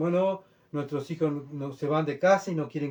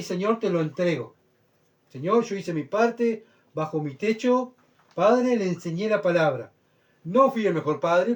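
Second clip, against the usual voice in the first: a hint of a pleading prayer; acted prayer to God; 3 semitones higher, 3 dB louder than usual. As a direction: pray it out like a father giving up his child. Father praying, handing child to God.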